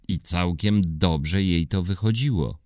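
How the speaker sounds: usual speaking voice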